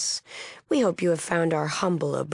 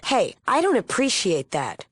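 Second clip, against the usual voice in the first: higher, indignant objection; offended rebuke; 5 semitones higher, 4 dB louder than usual. Acted. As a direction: pull up a rude guest sharply. Acted rebuke of a rude guest.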